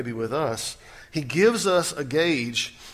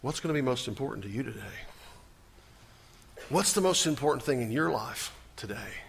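soft whispered question; 3 semitones lower, 7 dB quieter than usual. Real, not acted. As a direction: lean in and whisper it to each listener. Intimate question to congregation.

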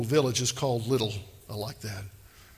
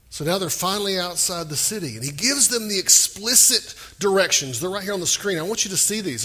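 ordinary talk, nothing marked

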